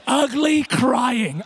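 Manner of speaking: mock-dramatic slow "ugly crying"; stretched ugly crying. Real, not acted. Preacher to congregation, slowly stretching "ugly crying". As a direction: drag out "ugly crying" slowly, every syllable. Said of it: "I mean heavy metal".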